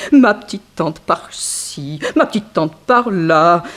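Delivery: slow mock-sweet ma petite tante; drawn-out fawning imitation; mocking the nephew. Goddaughter mocks the nephew's fake affection, slow and syrupy. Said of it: "pour jouer la comédie, il s'y entendait".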